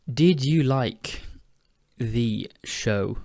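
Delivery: "Did you like" stretched slowly, searching; hesitant slow question; slow, drawn out. Shown as a demonstration. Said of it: "I need to think of another example".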